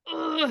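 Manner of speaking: imitated angry growl of a child; furious grunt. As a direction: act out a kid seething. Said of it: "he was so furious".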